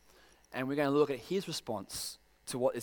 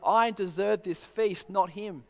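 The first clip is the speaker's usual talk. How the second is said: indignant elder son; 5 semitones higher, 7 dB louder than usual. Retold or imitated. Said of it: "what he's trying to say is that".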